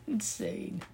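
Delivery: high, awed "Insane" falling away; "Insane" said high and falling in disbelief; incredulous. Real, not acted. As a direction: say "Insane" high and let it drop. Reacts in disbelief.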